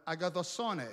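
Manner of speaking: preacher showing the congregation how to say agathosone; Greek pronunciation. Shown as a demonstration. Careful Greek agathosone.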